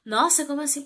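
loud, high mock gasp of disbelief; mock surprise. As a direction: play it up as if shocked. Mock surprised reaction to herself.

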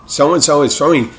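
put-on old-timey radio announcer. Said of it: "old-timey nineteen thirty voice".

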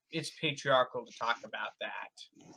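sarcastic whisper; whispered aside. Real, not acted. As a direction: drop to a whisper.

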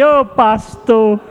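high, whiny complaint voiced by the pastor; imitating a weary mother's lament; mock pleading woman. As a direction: play the exasperated mother.

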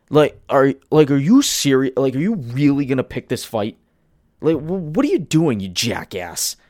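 exasperated rant. Real, not acted. Ranting at studio head.

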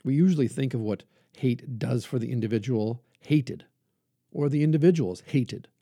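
measured oratory with punched key words; emphatic preaching. Acted. Preacher reading King's plea to love your enemies, emphatic oratory. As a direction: preach it in weighty phrases, swelling on the key words. Reads King's sermon aloud.

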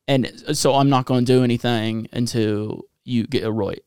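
badly faked Aussie accent; attempted Australian accent. Host refusing until the name is right, badly faked Australian accent. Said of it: "That was terrible".

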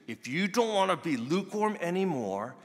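high, loud fired-up preaching; mock the old pep-rally sermon, pumped and shouting; hyped-up preacher. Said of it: "I probably would have preached it".

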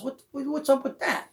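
high, baffled mock Kenny; puzzled Kenny. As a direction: sound baffled, voicing your friend. Kenny puzzled in the retold story.

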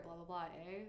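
"eh" tagged on with rising pitch; questioning EH tag. Shown as a demonstration. Guest shows Eastern Canadian habit, rising "eh". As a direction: end on "eh" lifted like a question. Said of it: "a couple things that they say".

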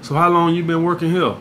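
lightly voiced smooth flirt; Mac Daddy mode. Shown as a demonstration. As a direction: slip into a mild pickup voice. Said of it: "I hit right into Mac Daddy mode".

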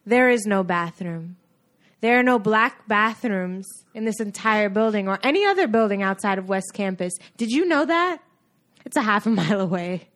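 understated dramatic film monologue; measured, aggrieved film heroine; Hidden Figures monologue. Acted. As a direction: build into an indignant movie speech. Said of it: "That's from Hidden Figures".

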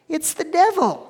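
spring the answer on them; dramatic reveal. Real, not acted. Preacher names the accuser to the church, loud reveal.

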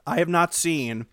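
speaking through a mouthful; mouth full. Real, not acted. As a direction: still chewing between words. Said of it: "I'm eating right now".

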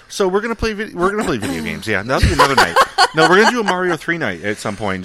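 high, loud burst about game night; excited. Real, not acted. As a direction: pitch it up and loud, thrilled to play.

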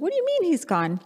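imitating a mother's panicked disbelief; alarmed question. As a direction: jump up in pitch with sudden alarm. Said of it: "And I was like".

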